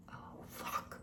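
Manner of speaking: unvoiced aside under the breath; whispered curse. Real, not acted. Speaker lamenting she can't control time, whispered curse.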